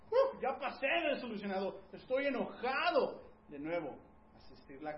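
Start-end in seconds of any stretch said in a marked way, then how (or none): 0.1-3.2 high, loud, laughing exasperation; amused mock anger from the spouse. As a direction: play the spouse already past disappointed, half laughing.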